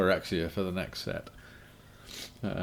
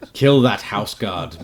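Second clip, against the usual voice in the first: loud, slow undead lord command; ancient rasping undead king; 10 dB louder, slower than usual. Acted. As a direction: bellow the order like a lich king. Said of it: "in my Dimir voice".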